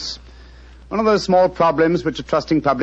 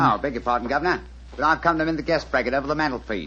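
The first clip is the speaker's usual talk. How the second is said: a lightly voiced humble tradesman; apologetic workman, cap in hand; British workman disguise; 4 dB quieter than usual. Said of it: "a typical example of the British working man".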